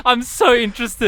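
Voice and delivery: loud high teasing delight; can't contain the glee; excited. Real, not acted. Teasing about the friend zone.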